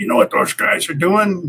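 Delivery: rough-edged gruffness. Retelling Tom's story of Hobson closing the door, Hobson's very gruff voice. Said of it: "in a very gruff voice said".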